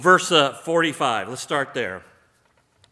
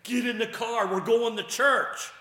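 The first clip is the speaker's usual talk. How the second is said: loud, higher parent command; stern parent order; 8 semitones higher, 10 dB louder than usual. Retold or imitated. Parent ordering kids to church, loud high command. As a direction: bark it like a parent at the car door. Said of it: "It's like a parent saying".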